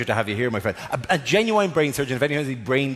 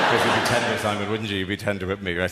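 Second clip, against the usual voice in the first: mock tender; 7 semitones lower than usual. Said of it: "vulnerable but satisfied".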